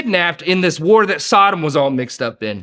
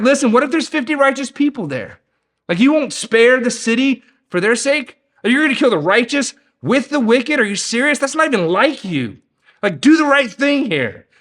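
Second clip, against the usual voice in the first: pushy Abraham; 4 semitones higher than usual. Retold or imitated. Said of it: "Abraham goes hard here".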